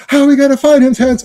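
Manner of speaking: high, loud cartoon voice; cartoon Canadian. Cartoon Canadian asks partner about finding the kid, high and loud. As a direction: call it out like a worried cartoon Canadian. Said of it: "I love the Canadians in South Park".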